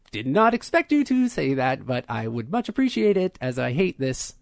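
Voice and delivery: halting words, pitch lurching up mid-phrase; malfunctioning android woman. Acted. Asking the party to repair her, glitching android.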